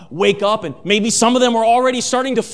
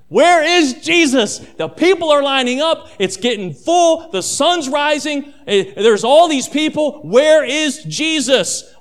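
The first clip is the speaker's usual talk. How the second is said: higher, louder frantic searching; urgent worried calling; panicked disciples; 5 semitones higher, 3 dB louder than usual. Acted. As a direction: voice the disciples' rising alarm.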